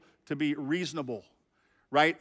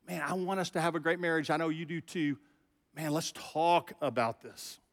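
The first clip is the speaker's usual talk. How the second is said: gentle; 4 dB quieter than usual. Pretend. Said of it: "you could just gently".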